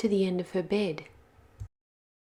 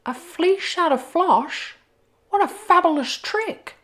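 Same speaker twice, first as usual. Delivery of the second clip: excited wolf; 11 semitones higher, 5 dB louder than usual. Acted. Wolf delighted by candy floss.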